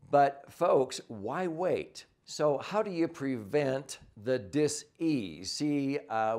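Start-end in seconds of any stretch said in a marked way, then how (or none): 4.4-5.5 "dis-ease" said as two parts, dis then ease; dis-ease split apart. Shown as a demonstration. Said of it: "that's what we call dis-ease".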